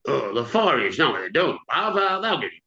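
a touch of unease under reassurance; quivering. Acted. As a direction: reassure her with faint, mild nerves. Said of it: "But Tom's words quivered".

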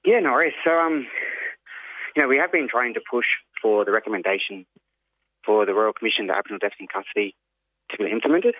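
out of breath; winded, catching breath between phrases; after a workout. Real, not acted. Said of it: "Sorry, I'm just catching my breath".

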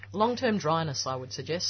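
talking through a grape; speaking around a mouthful; mouth full. Real, not acted. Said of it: "Sorry, I've got a grape in my mouth".

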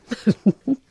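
light laugh; amused laugh. Real, not acted. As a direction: laugh along warmly. Laughing at host's pronunciation.

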